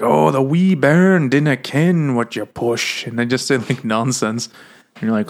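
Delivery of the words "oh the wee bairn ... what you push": slow, mock Scottish accent; comical Scottish. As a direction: lay on a silly Scottish accent. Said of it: "They just all talk in comical Scottish".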